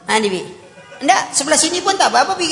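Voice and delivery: put-on a child daring his father to hit; mock child, half-teasing; cheeky child. Child offers the other side to hit.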